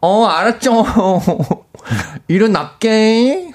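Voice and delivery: high, slow nasal coo. Retold or imitated. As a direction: coo sleepily through the nose. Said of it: "코맹맹이 소리로".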